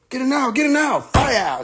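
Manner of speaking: high, urgent shouting; hammed-up panic; mock panic. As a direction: yell like people under fire. Imitating panicked victims.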